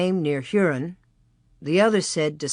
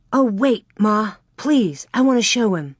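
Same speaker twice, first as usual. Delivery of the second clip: a touch of eager pleading, a bit louder; begging; 3 semitones higher, 3 dB louder than usual. Acted. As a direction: plead to show him first. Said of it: "Laura begged".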